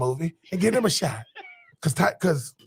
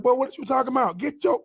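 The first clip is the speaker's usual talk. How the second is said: home Southern voice; 5 semitones higher than usual. Retold or imitated. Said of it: "I'm like".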